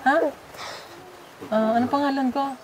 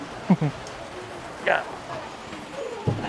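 soft, breathy chuckle; 4 semitones lower, 7 dB quieter than usual. Real, not acted. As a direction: chuckle quietly to yourself. Chuckle while arriving at house. (mahinang tawa)

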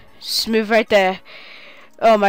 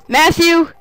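loud cheer urging a unit to attack; rallying shout; 3 semitones higher, 4 dB louder than usual. Real, not acted. Player cheering on a unit into battle, loud rallying cry. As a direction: yell the charge for your country.

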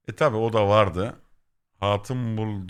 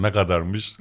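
imitating Kemal; 4 semitones lower, slower than usual. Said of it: "Böyle yapıyor hemen".

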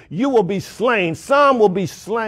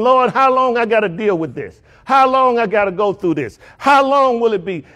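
higher, insistent plea; pleading wondering; 5 semitones higher than usual. Acted. Churchgoers asking the Lord about their troubles, pleading. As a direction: ask it as a weary appeal upward. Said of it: "some of you wondering".

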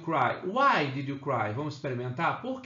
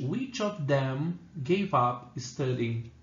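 slow model sentence; slower than usual. Shown as a demonstration. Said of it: "para escolha eu uso which".

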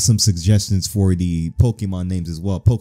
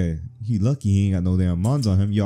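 normal talking voice

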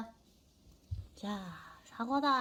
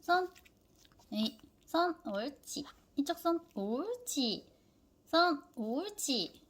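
high-pitched dog commands; 4 semitones higher than usual. Real, not acted.

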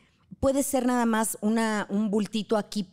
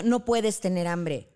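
slow scolding quote; slower than usual. Retold or imitated. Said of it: "le decimos a un niño".

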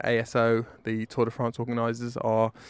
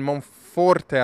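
Monforte with a light Italian accent; a touch of Italian on Monforte; 3 semitones higher, 5 dB louder than usual. Real, not acted. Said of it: "excuse the Italian accent".

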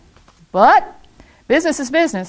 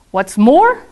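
a higher, louder snap; snapped; 4 semitones higher, 4 dB louder than usual. Acted. Lorax snapping at the Onceler, higher and louder. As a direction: bite the words off, annoyed. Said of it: "snapped the Lorax".

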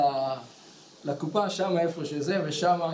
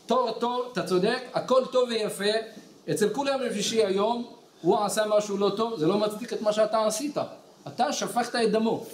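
raised-pitch lecturing reproof; relentless scolding; 3 semitones higher than usual. Retold or imitated. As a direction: keep pressing the rebuke on him. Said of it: "והוא המשיך להצליף בו".

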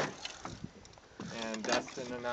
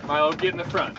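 firm raised command; calling the dog; 4 semitones higher, 8 dB louder than usual. Real, not acted. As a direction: send the dog forward.

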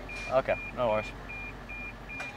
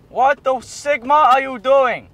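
drawn-out silly voice; 5 semitones higher, 4 dB louder, slower than usual. Acted. Clowning in the put-on voice.

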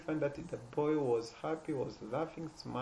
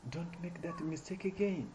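father scolding son; 5 semitones higher than usual. Retold or imitated. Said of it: "the father is telling the son".

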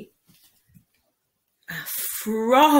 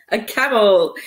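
laughing; 6 dB louder than usual. Real, not acted. Laughs at her mistake.

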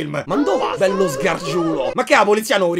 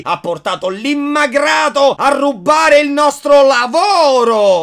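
mock angry rant; 6 semitones higher than usual. Parody angry character rant.

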